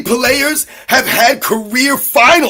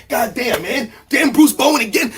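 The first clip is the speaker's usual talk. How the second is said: Kobe grumbling; 5 dB quieter than usual. Retold or imitated. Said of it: "and he's like".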